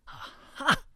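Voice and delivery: high, sudden breathy "aha"; triumphant aha. A narrator's reading. Ruby springs into a neighbor's doorway, triumphant. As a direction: pounce on the discovery, pitched high.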